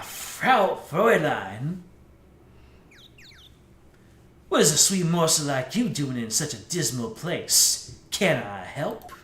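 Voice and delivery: a light take on a suave cool guy. Acted. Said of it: "my generic cool guy voice".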